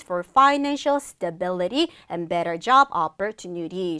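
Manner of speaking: slow, clearly phrased English model reading; model reading aloud. Shown as a demonstration. Teacher repeats second explanation aloud, slow model reading. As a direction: deliver it slowly in thought groups. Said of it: "큰 소리로 전달해 볼게요".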